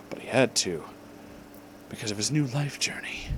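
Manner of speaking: soft unvoiced whisper. A narrator's reading. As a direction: breathe it out as a whisper. Narration dropped to a whisper.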